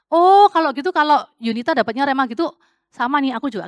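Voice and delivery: loud, eager imitation of a copycat. Mocking a believer who claims Yunita's word, loud and eager. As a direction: sound too sure you can borrow it. Mimicking someone copying another's word.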